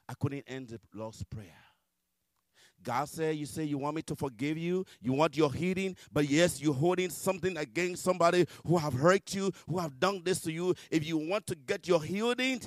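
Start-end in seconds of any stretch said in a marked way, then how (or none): 3.4-12.6 a loud, stern God, lightly voiced; God confronting. God answering the believer's plea, confronting. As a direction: lay down the condition forcefully.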